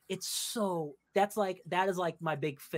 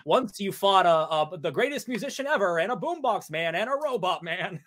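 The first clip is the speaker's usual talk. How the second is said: game character imitation; 2 semitones higher, 4 dB louder than usual. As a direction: recount it grandly as the character. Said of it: "where he's like".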